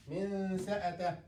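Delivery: من سأته with the nun half hidden; nasal hum before the s in من سأته; ikhfa demo. Shown as a demonstration. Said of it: "will not say من سأته".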